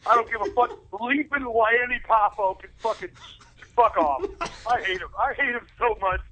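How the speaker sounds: worked-up, exasperated rant; really fed up, cursing emphatically; getting mad. Real, not acted. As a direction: rant as your temper builds. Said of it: "I'm getting so mad".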